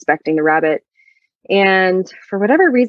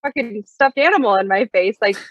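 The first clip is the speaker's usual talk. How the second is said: 1 retold indignation; 5 semitones higher than usual. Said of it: "but I was like".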